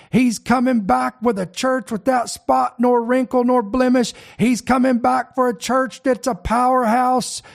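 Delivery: rising impassioned oratory; hammed-up fiery preacher. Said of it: "let me put on my preacher voice here".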